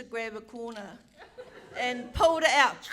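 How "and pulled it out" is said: louder, triumphant payoff. Real, not acted. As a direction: land the victory loud. Triumphant climax of story.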